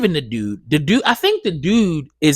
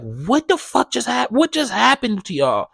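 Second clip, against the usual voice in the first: voicing the dogs' owner; 6 semitones higher than usual. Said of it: "And it's just like".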